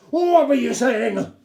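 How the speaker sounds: high, loud, slow demand; shouting. A narrator's reading. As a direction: yell it like a parade-ground order. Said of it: "He was shouting at me".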